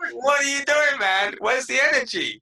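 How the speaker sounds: high, loud, incredulous protest; mock exasperation. Host's reaction to a flat guest, acted by interviewee, mock exasperation. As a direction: exclaim in comic disbelief.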